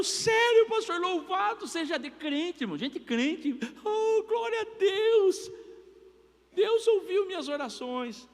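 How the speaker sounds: imitando irmã aliviada, bem aguda e arrastada; júbilo exagerado de quem recebeu resposta; irmã eufórica. Retold or imitated. Irmã celebra o panetone. (irmã agradece a Deus pela cesta, aguda e lenta)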